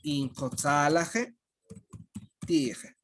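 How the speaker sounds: "Incotzalaje, tieje" said slowly, syllable by syllable; careful model phrase. Shown as a demonstration. Teacher models the plural form for students, slow. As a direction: teach it slowly so they can repeat. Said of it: "¿cómo vamos a decir?".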